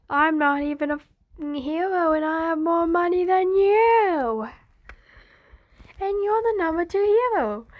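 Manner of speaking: high, smug neighbor boast; mocking brag. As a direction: rub it in like a smug rich kid. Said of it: "being like".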